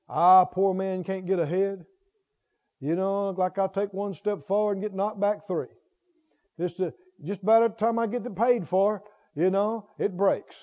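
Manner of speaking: low, quiet grumbling complaint; whiny complainer. Retold or imitated. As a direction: sigh it out like a beaten man. Voicing a complaining, defeated person.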